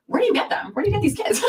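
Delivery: high, laughing through the words; laughing question. Retold or imitated. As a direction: giggle while asking.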